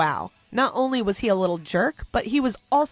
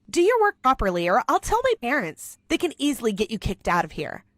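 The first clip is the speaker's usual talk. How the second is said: haughty threat; 2 semitones higher than usual. Acted. Rich girl threatening the janitor, haughty. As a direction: threaten him from above.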